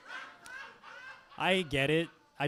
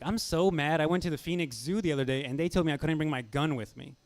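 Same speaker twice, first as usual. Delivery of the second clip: mock angry rant, louder; ranting like a pissed-off gun owner; angry customer; 5 dB louder than usual. Guy at work complaining about the zoo, angry.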